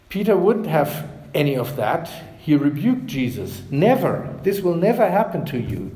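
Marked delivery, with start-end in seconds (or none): 3.7-5.9 higher-pitched, mildly pleading protest; pleading rebuke. Retold or imitated. Peter rebuking Jesus, mildly pleading. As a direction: plead it lightly, with stress on never. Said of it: "Peter pleaded".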